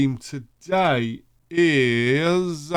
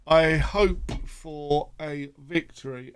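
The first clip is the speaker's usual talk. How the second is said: yawning; 4 dB quieter than usual. Real, not acted. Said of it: "And sorry about the yawning".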